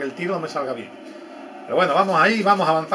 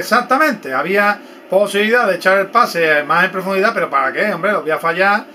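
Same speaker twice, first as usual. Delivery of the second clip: high and loud, eager agreement; excited; 4 semitones higher, 6 dB louder than usual. Real, not acted. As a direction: jump in with loud enthusiasm. Excited reply to viewers.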